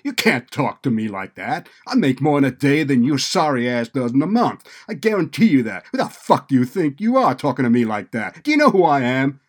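loud, high furious outburst; enraged retort. A narrator's reading. Student raging back at administrator's insult, enraged and loud. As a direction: explode at the man who insulted him. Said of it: "enraged, hissed back".

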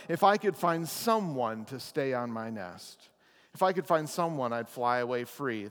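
lightly voiced lazy bird, sighing and bored; a hint of a whiny, bored bird; lazy bird Maisie. Pastor reading Dr Seuss to the congregation, lightly voiced lazy bird. Reads lazy bird's complaint.

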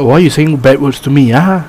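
lightly put-on Chinese accent. Shown as a demonstration. Friend demonstrating the line, mild Chinese accent. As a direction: show a mild angry Chinese-accented scolding. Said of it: "do it like a damn Chinese accent".

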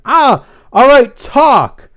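high, loud demand; tough interrogation. A narrator's reading. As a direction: grill a captured stalker. Blythe interrogates the trapped follower.

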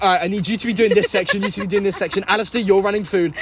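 bossy high quick orders; imitating a frantic coworker barking jobs; stressed Heather. Coworker Heather, flustered at the rush, mock bossy. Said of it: "She was like".

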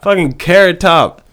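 high, loud, disbelieving yelp; shocked dad. Pretend. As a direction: shriek it like you can't believe your eyes. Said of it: "I'm like".

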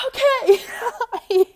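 real sob breaking through; crying. Real, not acted. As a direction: voice cracking into tears. Breaking down saying goodbye.

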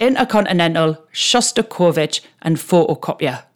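light Geordie accent on each word; party-piece Newcastle Geordie accent. Shown as a demonstration. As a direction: show off a few words in Geordie. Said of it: "three words that I can say in a Geordie accent".

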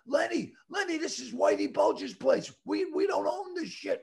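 high-pitched mock yell, no real volume; retold yelling. Film crew stops Lenny wrecking the bar, mock yelling. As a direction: imitate a panicked crowd yelling, held back. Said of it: "everyone's yelling".

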